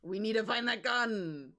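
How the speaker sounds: loud playful rallying cry; hammed-up shout, stretched at the end; mock urgent cry. Hammy echo of partner's line.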